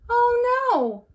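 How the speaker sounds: high, loud dismayed mother; mother crying out. A narrator's reading. Mother sees lunch flying, crying out high and loud. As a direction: wail it like a mom losing lunch. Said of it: "the mother cried".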